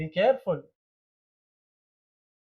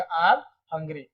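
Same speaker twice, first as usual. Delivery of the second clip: slow model answer; much slower than usual. Shown as a demonstration. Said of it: "तो क्या बोलेंगे?".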